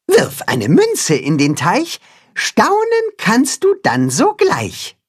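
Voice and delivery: secretive Katzenhuhn. A narrator's reading. The cat hen lets the others in on it, sing-song secret. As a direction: reveal the rhyme like a little secret. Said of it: "verrät das Katzenhuhn".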